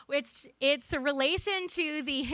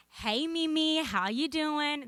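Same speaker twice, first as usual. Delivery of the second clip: put-on light, relaxed Southern accent; 2 semitones higher, slower than usual. Granddaughter greeting her Mimi by phone in a light Southern accent. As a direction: ease into a Southern drawl, slower at the end. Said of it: "This is my Southern accent".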